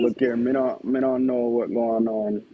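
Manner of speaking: slow Jamaican patois, laughing; lightly done island accent. Acted. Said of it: "do the Jamaican accent one more time".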